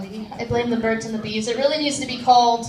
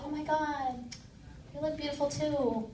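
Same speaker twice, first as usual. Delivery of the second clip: breathy woman; 3 semitones higher, 13 dB quieter than usual. Retold or imitated. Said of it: "she'll be like".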